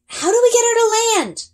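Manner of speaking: high, loud urgent question; calling out. A narrator's reading. Girl asking Ari how to land, loud call. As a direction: shout it over the wind. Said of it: "I ask".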